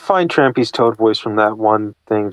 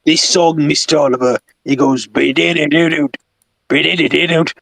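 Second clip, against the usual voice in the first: Toad. Acted. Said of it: "Toad just listens to it".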